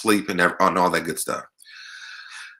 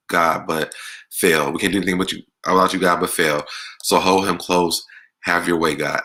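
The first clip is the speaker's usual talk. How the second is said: prayer. Acted. Prays for a viewer on live.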